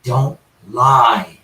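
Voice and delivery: imitated spirit voice. Investigator retells a spirit answering his wisecrack, low imitated voice. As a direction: lightly mimic a spirit's spaced-out warning. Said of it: "you hear a voice says".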